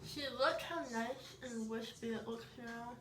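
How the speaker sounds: talking with chocolate in mouth; eating chocolate. Real, not acted. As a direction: speak around a mouthful of chocolate. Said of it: "I have chocolate in my mouth".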